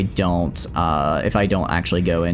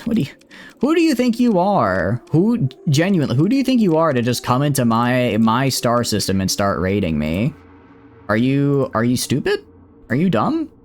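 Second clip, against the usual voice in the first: higher, indignant scolding of the raiders; mock outrage; 3 semitones higher than usual. Streamer scolds raiders attacking his colony, hammed-up outrage. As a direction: play up the offended ruler, half joking.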